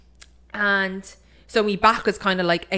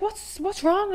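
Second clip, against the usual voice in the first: alarmed dad; 12 semitones higher, 3 dB quieter, much slower than usual. Retold or imitated.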